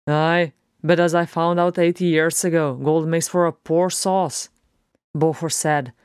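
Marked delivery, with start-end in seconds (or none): 0.1-4.5 slightly lifted, lively dwarf voice; irreverent dwarf. Acted. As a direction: lightly voice a cheeky, outspoken dwarf. Plays the irreverent dwarf Beaufort.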